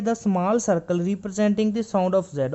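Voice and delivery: reading the rule slowly word by word; slow textbook reading; slow reading aloud. Shown as a demonstration. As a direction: dictate the textbook line. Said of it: "यहाँ पे लिखा है".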